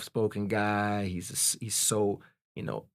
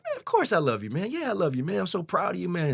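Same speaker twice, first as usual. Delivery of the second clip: much higher, effusive dad voice; imitating loving dad; 10 semitones higher than usual. Dad finally tells his son he loves him, effusive. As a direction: gush with love and pride, imitating dad. Dad's loving reply, acted out.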